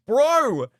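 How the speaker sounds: high, loud disbelieving shout; can't believe what he's reading; incredulous yell. Real, not acted. Streamer reacting to the fifteen-year-old's message, loud disbelief.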